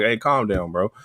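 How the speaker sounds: low, soft, unbothered cat voice; chill cat. Acted. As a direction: play it cool, quietly settling the dog. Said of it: "It's just relaxing".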